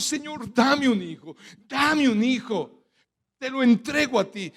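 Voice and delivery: imitated plea, slowing on the repeat; acted prayerful plea. Preacher voices Ana asking the Lord for a son, pleading. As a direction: plead to God as if quoting her.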